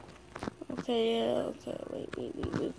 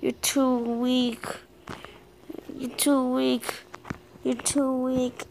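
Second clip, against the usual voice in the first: slow, louder gloating taunt; 3 semitones higher, 4 dB louder, slower than usual. Real, not acted. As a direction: drag out a mocking jab. Taunting enemy in game.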